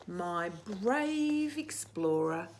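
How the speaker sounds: tender. Acted. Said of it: "she said".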